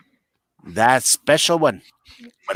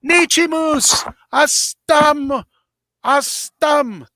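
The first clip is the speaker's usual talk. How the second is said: mock scream; much slower than usual. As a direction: holler it across the parking lot. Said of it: "He's like".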